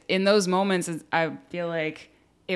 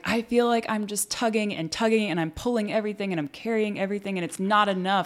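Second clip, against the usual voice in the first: mom overwhelmed; 4 semitones higher than usual. Retold or imitated. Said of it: "and she was like".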